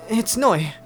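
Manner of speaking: high, simple reply; young Noi. Acted. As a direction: pitch it up for the young hero. Voicing Noi in dialogue.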